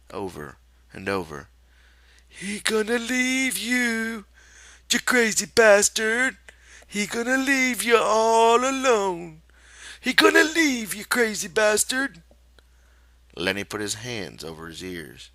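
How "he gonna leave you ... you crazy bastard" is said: softly taunting. A narrator's reading. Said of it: "the rabbit repeated softly".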